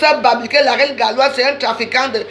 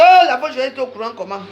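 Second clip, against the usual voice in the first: mock surprise. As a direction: play their shocked oh. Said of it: "vous allez dire".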